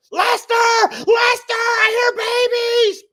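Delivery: high, loud calling out; imitating wife's excited yell; retold excited call. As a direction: shout for him from outside. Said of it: "she goes".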